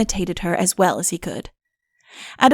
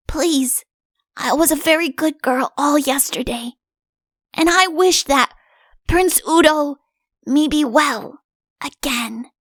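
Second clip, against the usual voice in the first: put-on a girl's earnest plea, a touch higher; brave wish; 5 semitones higher than usual. Wiggs on the castle walls wishing for Udo. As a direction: wish bravely, holding the ring up. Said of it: "went on bravely".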